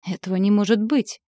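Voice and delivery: ordinary delivery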